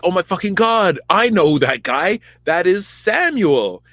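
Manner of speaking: high, hammed-up excitement; mock excited Saul. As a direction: gush it out in a high put-on voice. Saul voiced, excited recognition.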